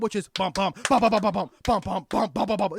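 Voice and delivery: irregular heartbeat sounds. Shown as a demonstration. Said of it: "going A fib".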